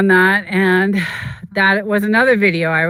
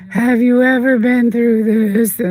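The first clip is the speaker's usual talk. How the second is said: emotional; 6 semitones higher, 4 dB louder than usual. Retold or imitated. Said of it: "you could tell in the tone of my voice".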